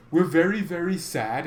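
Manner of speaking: badly faked German accent, starting high; half-convincing mock German accent. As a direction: put on a clumsy German accent. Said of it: "how to do the German accent".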